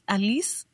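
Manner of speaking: "Alice" said as a-LEECE; imitated pronunciation. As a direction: say "Alice" with a long ee, as the physicist does. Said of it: "because he pronounces it as".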